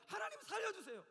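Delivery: loud, high, impassioned cries; desperate pleading. Acted. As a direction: beg for a life with full force. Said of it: "이게 바로 목자의 심정입니다". (절박하게 부르짖는 간청)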